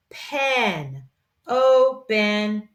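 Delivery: PEN alone, then OPEN split as O, pen; syllables sounded out. Shown as a demonstration. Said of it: "we're gonna read this one like this".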